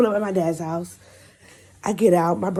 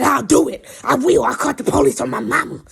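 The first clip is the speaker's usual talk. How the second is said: higher, loud mock defiance; imitated threatening child; 6 semitones higher, 6 dB louder than usual. Girl threatening to call police, acted defiant yell. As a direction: yell it as a kid making threats. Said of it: "she threatened to call the".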